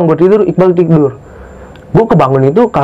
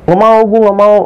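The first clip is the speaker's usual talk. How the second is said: high-pitched mock scared refusal; menirukan orang ketakutan; 7 semitones higher than usual. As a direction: refuse as if frightened, lightly acted. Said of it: "kayak orang ketakutan". (menirukan penolakan takut dengan nada tinggi)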